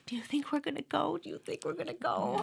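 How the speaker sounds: anxious excitement. Retold or imitated. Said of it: "And Karen and I are like".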